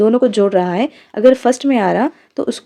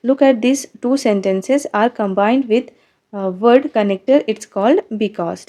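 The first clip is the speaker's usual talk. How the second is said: slow read-aloud; much slower than usual. Shown as a demonstration. Teacher reads English explanation.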